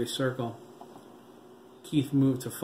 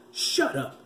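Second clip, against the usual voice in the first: put-on dead boy screaming at the father; screamed; 7 semitones higher than usual. A narrator's reading. Screamed shut up. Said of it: "Terry screamed".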